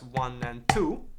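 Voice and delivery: slowed count of the pattern. Shown as a demonstration. Teacher shows where the accent starts, counting slowly. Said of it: "That first note I play".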